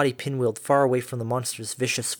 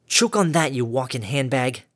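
angry taunt. Acted. Harmony strikes monster, taunts.

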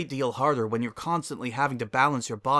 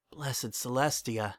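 tearful murmur; 5 dB quieter, slower than usual. Acted. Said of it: "quivering to my lip".

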